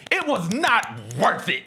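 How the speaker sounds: slow grumbling reply; grumpy retort. Retold or imitated. Wife answering the cheering fans, slow and grumpy. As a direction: mutter it as she stomps out. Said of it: "She's like".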